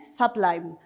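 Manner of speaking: "sublime" with a lengthened final syllable; prolonged stress. Shown as a demonstration. Teacher demonstrating masculine rhyme, "sublime" stressed long on the last syllable. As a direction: draw out the "lime" in "sublime". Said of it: "it has to be prolonged".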